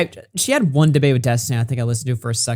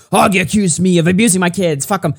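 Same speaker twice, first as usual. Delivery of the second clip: mock outrage; 4 semitones higher, 3 dB louder than usual. Reads out her message, mockingly.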